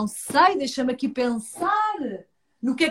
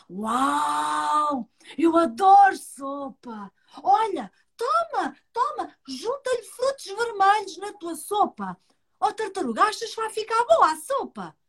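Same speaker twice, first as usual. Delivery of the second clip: deer voice; 5 semitones higher than usual. Acted.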